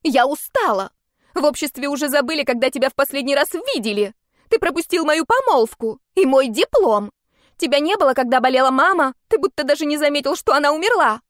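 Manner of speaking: high, loud furious outburst; shouting. Acted. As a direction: yell it all out at him. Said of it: "Амелия кричала всё громче".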